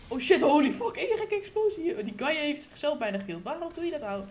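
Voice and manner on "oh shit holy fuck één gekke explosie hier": loud shocked swearing at a blast; startled outburst. Real, not acted. Gamer startled by an explosion, loud cry. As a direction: jolt out a loud curse.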